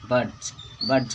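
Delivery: बर्ड्स ending in a voiced J/Z sound; correct plural ending. Shown as a demonstration. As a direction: say बर्ड्स as "burdz". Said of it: "बर्ड्स पढ़ेंगे इसको". (बर्ड्स के अंत में ज़ की आवाज़)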